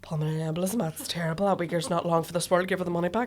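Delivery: soft, hushed mock-grave manager; lightly voiced solemn manager; imitating the manager. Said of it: "the manager must have gone".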